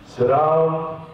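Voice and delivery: curt official at the interview; no-nonsense officer voice; stern interrogator. Retold or imitated. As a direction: summon them like an interrogator. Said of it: "the tone became immediately different".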